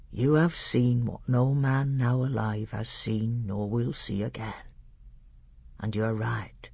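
lightly voiced, hushed learned doctor; measured, grave teacher with a hint of awe; solemn old tutor. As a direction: speak as a tutor revealing the heavens to a prince.

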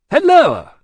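loud, high hail from an oversized man; hearty booming shout; booming greeting. A narrator's reading. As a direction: boom it out, far too big for the room. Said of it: "always seemed too big for any place".

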